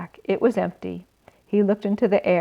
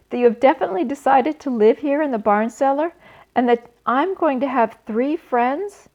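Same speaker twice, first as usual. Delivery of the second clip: excited; 5 semitones higher, 3 dB louder than usual. Acted. Excited pig asks hopefully.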